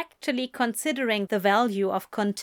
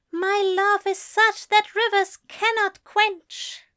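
higher angel voice, reciting; reciting poem; 12 semitones higher, 3 dB louder than usual. A narrator's reading. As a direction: lift the lines like a vow.

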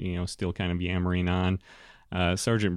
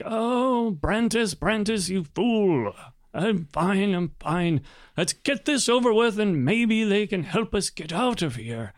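put-on higher, gently exasperated old man; weary lord calming; 10 semitones higher than usual. Lord telling his angry sergeant he is fine, weary. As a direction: soothe your hot-headed guard, tired.

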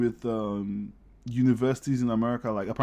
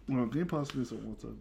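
hiccuping between words; with hiccups; 8 dB quieter than usual. Real, not acted. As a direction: ask while hiccuping. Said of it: "I just have hiccups".

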